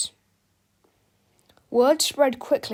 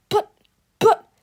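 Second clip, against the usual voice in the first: short, halting protest; stammering; 11 semitones higher, 10 dB louder than usual. A narrator's reading. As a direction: stammer out a startled objection. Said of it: "Harold stammered".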